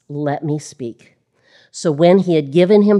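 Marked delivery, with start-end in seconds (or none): 0.1-1.2 calm request. Acted. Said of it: "He just calmly requests".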